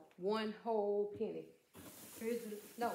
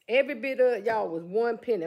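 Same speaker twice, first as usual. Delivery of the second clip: much louder, thrilled announcement; excited exclaim; 11 dB louder than usual. Real, not acted. Vlogger telling viewers her whole chair cost one penny, excitedly louder. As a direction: shout it out like you can't believe the bargain.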